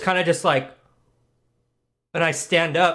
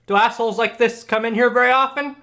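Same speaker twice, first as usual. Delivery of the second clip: raised-pitch jab meant for someone nearby; pointedly overheard; 5 semitones higher than usual. Acted. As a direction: say it so the target overhears. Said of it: "I say that so he can hear it".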